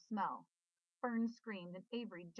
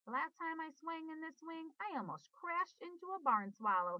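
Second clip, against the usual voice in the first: put-on boy yelling from the hayloft, pitched up; yelled; 8 semitones higher, 4 dB louder than usual. A narrator's reading. Boy yells to sister from the hayloft, excited and loud. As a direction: call it down from the hayloft. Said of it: "he yelled".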